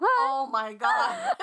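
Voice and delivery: loud, very high, stretched-out shriek; shrieking laughter. Real, not acted. Friend first sees the meme, shrieking laughter. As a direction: shriek it slowly while laughing.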